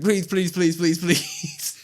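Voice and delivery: high, slow, drawn-out pleading; hammed-up whiny begging; mock begging. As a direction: beg like a desperate man, dragging each please. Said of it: "eventually Carlito just starts begging".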